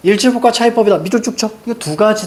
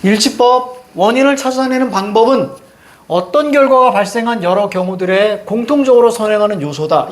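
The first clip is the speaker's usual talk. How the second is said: model-read it in chunks from "일치법" down to "요소다"; reading demonstration; 2 semitones higher than usual. Shown as a demonstration. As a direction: pause after "일치법" and "방법은", falling away on "요소다". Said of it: "이렇게 읽었어야 되는 거야".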